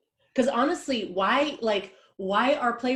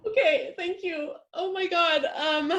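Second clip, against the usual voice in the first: nervous laugh; 9 semitones higher than usual. Acted.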